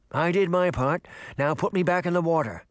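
a hint of offhand fish character; lightly voiced brusque fish. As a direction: brush the kid off as a fish.

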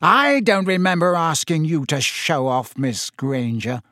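cold teacherly disdain, slowing on the name. Acted. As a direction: cut the pupil down coldly. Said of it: "said Snape coldly".

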